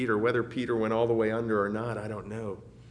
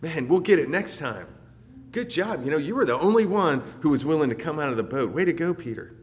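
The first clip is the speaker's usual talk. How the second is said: imagined encouraging coach; 4 semitones higher, 3 dB louder, faster than usual. Pretend. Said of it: "like I would imagine".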